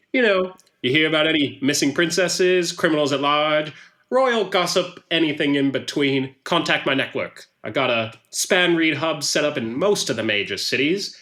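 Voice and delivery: put-on lightly accented newsman making a pitch; chatty salesman touting his network; Hein Hookman pitch. Hookman asks Luca for gossip, salesman-like.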